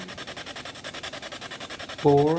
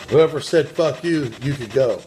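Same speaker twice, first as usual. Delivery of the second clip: louder, higher call-out; loud challenge; 3 semitones higher, 4 dB louder than usual. Real, not acted. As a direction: call out the culprit loudly. Challenging the rude spirit.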